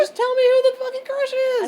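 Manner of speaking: high, loud yell of impatience; just spit it out already; shrill demand; exasperated shout. Real, not acted. Shouting back at friend.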